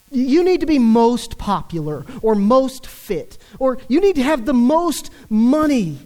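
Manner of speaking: mock the sales pitch, rising; mocking the media. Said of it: "The media says".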